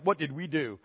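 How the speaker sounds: low, soft aside as a stunned parent; lightly acted, quiet bewilderment; hushed mock dismay. Preacher voicing parents after their second baby, hushed mock dismay.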